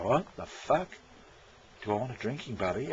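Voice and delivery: imitating a puzzled Aussie bloke, mildly; a bloke reacting to the ad in disbelief; incredulous bloke. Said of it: "Australian blokes go".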